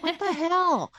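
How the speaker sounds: high, loud mock disbelief; surprised friend. Friend hearing about the experience, high stunned outburst. Friend reacts to her story.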